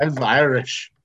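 put-on movie-Irish brogue; bad Irish accent; Boondock Saints Irish accent. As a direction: claim it in a hammed-up Irish accent. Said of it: "just channeling Boondock Saints".

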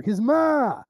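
high, loud, stretched Irish "ma"; Irish pikey accent. Retold or imitated. Explaining the subtitle joke, mock Irish pikey accent. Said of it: "when he was saying".

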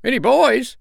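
very high, piping bird question; puzzled sandpiper. A narrator's reading. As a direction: squeak it in puzzlement.

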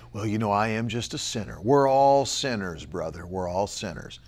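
low, soft sanctimonious murmur; sighing mock humility; mock pious Christian. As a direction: imitate a resigned churchgoer. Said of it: "continuing to say".

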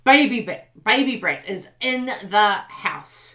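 playful hype-man call; hammed-up announcer. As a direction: announce the brat like a ring MC.

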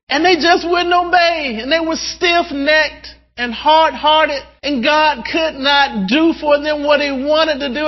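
high-pitched, insistent preacher delivery; impassioned preaching. Real, not acted. Preacher builds on God's frustration.

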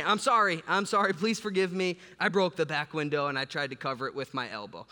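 pleading apology. Retold or imitated. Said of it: "I didn't have anything to say".

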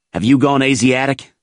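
excited. A narrator's reading. Snafu questioning his foxhole buddy's sanity, excited. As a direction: raise the pitch in agitated disbelief. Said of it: "he asked excitedly".

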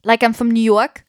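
put-on New York American accent. Shown as a demonstration. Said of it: "I can speak, um".

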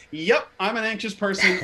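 amused, self-mocking confession; laughing admission. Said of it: "I laugh because I go".

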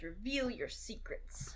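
lightly voiced Snape, drawn out slowly; a hint of a wizard's solemn command; Snape casting a spell. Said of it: "he points his wand and he goes".

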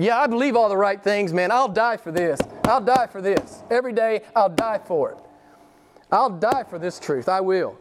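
high-pitched, repeated vow; zealous insistence. Acted. Believer swears he'd die for right doctrine, zealous. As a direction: insist on it, pitch lifted throughout.

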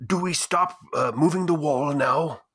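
strained character stage whisper; stage whisper attempt. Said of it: "trying to stage whisper it with a voice".

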